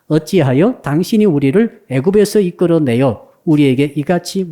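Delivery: scripture reading. Acted. Congregation reading Exodus aloud, solemn recitation. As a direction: read the verses in an even, solemn recitation.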